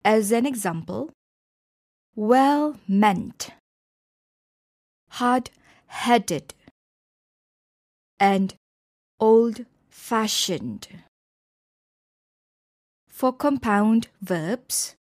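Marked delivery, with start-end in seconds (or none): 2.2-6.5 well-MEANT, hard-HEADed; stress on last part. Shown as a demonstration. Teacher showing compound adjectives, last part stressed in "well-meant", "hard-headed". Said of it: "the stress is on the last part". 9.2-10.9 put-on slow old-FASHioned; stress on last part. Shown as a demonstration. Teacher showing a compound adjective, slow "old-fashioned", last part stressed. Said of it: "the stress is on the last part".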